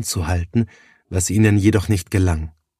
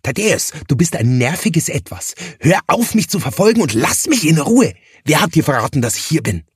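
higher, sharp irritated push-back; annoyed rebuff; 6 semitones higher, faster than usual. Acted. Johannes telling the pestering Thaddäus to back off, irritated. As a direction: snap at him to leave you alone.

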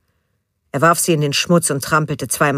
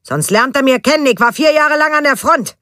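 angry threat in Berlin dialect, louder; 10 semitones higher, 5 dB louder than usual. A narrator's reading. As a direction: growl it in rough Berlin dialect. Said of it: "verfiel er ins Berlinerische".

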